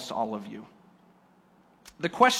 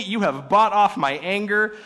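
You have bought off my anger, higher and louder, gushing; mock delighted; 4 semitones higher, 5 dB louder than usual. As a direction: gush "bought" like a happy man. Quoted gushing versus narrated.

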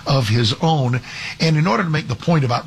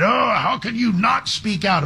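higher, slower mock-outraged critic; mock indignation; 8 semitones higher than usual. Host mocking critics who scold Caitlin Clark, mock indignant. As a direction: parrot the scolding critics with fake shock.

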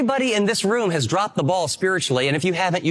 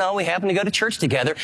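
quick, offhand and casual; fast throwaway church small talk; perfunctory; faster than usual. Shown as a demonstration. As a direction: toss it off like it barely matters. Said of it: "This isn't perfunctory".

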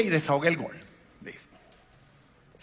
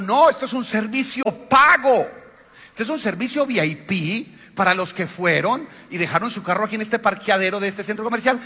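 higher, louder, lightly voiced stranger from Antioquia; amused stranger; 5 semitones higher, 3 dB louder than usual. Antioquian passenger telling them it is paid, loud and amused. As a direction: play the local setting them straight.

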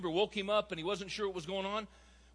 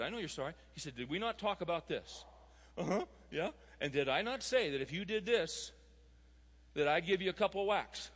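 calm. Retold or imitated. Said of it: "he was very calm".

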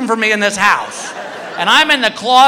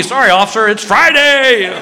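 sheepish excuse; 3 semitones higher than usual. Retold or imitated. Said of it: "my only excuse would be".

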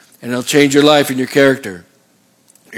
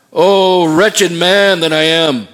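raised, drawn-out cry of Paul, mildly acted; anguished cry, quoted; 3 semitones higher, much slower than usual. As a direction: cry it out slowly and higher, as a preacher quoting. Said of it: "Paul just cries out and says".

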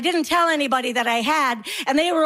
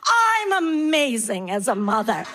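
self-congratulation; 3 semitones lower than usual. Acted. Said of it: "And you're like".

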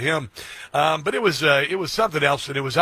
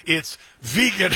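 mock scolding wife; slower than usual. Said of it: "Honey, President of the United States".

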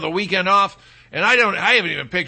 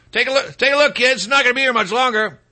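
mock tour guide; 5 semitones higher, faster than usual.

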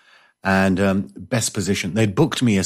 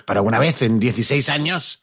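irate pharmacist; 3 semitones higher, faster than usual. Retold or imitated. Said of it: "the pharmacist was getting a bit irate".

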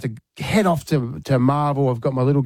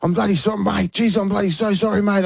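higher-pitched imitation of a panicked apology; imitating an apologetic mate; frantic apology; 6 semitones higher than usual. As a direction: blurt a retold apology, higher than usual. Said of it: "all I could hear is".

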